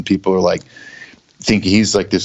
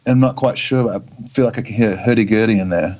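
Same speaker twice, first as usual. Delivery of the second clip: mock British. Joins the mock British accent bit.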